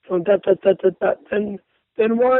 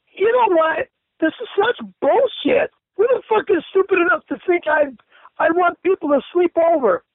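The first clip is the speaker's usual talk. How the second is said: pitched up, exasperated outburst; angry rant; 6 semitones higher than usual. Real, not acted. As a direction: vent in disgust at the message. Ranting about a message he received.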